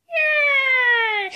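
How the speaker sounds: a loud, high, puppet-frog cheer; Kermit the Frog. Acted. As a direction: throw a big happy puppet yay. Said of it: "That was Kermit the Frog".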